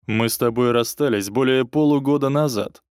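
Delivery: plain reading voice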